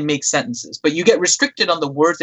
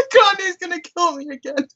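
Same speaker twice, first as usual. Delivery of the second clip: laughing. Real, not acted. Still laughing at the typo.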